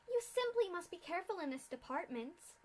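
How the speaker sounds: a hint of a chirpy tour guide with menace; lightly mock tour guide patter. A narrator's reading. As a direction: play the bored tour guide. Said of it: "in a tone not unlike many tour guides".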